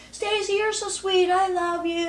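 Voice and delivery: proclaiming it loudly to everyone in the limo. Retold or imitated. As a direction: broadcast it to the whole limo. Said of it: "says right in front of everyone really loud".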